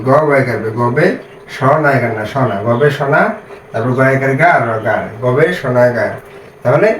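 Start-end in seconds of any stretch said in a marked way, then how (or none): 2.2-3.3 slow, chunked into syllables. Shown as a demonstration. Teacher drilling syllables for beginner readers, slow. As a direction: spell it out slowly in chunks. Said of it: "এটা আমরা একবার উচ্চারণ করলাম".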